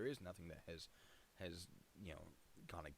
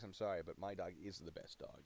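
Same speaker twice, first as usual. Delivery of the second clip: ordinary talk, nothing marked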